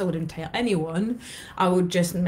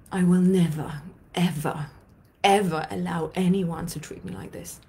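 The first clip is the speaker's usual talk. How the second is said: vow to herself. Retold or imitated. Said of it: "I'm saying to myself".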